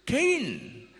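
God questions an angry Cain; God asking. Acted. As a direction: ask with concern. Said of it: "God asked him".

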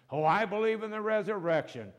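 acted-out squabble; arguing. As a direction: insist on your side as if debating. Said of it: "and they argued about things".

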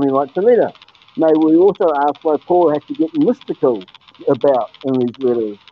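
hollow boxed-in sound; muffled like in a barrel; inside a barrel. Real, not acted. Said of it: "You sound like you're in a barrel now".

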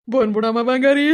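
pleading call. Acted. Husband calling out to departed wife.

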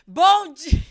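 loud, high mimicked yell, cut short; shouted greeting. Contestant doubting she can manage it, attempting a loud imitation shout. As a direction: belt out a greeting. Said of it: "Esse eu não vou dar conta".

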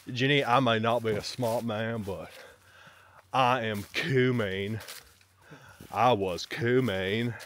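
slow Southern Forrest Gump drawl; slow dim-witted Southern drawl. Retold or imitated. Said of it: "here you are, Forrest Gump".

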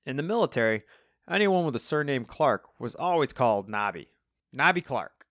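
lightly voiced Cockney old rocker; Alvin, explaining old rocker. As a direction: explain it like old army lore.

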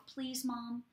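"Please, Mom" said softly, as a quiet, lightly voiced plea; soft pleading. Child quietly asking mom for mercy, soft plea. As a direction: ask gently, almost under the breath. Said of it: "there's times when they just go".

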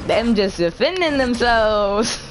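slow drawn-out mock girl quote; imitating a girl. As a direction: stretch it out like the video girl. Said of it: "This girl's all like".

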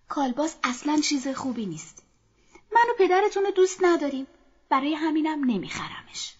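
upset mother. Acted. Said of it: "مادر با ناراحتی گفت".

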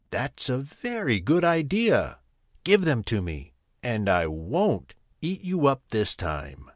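lightly voiced tiger, satisfied; a hint of a gracious tiger; pleased tiger. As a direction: accept the gift like a smug tiger. Tiger accepts the deal.

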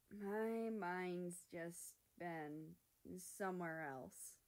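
very slow, dejected; sighing. Acted. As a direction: let it drag out wearily. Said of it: "America sighed".

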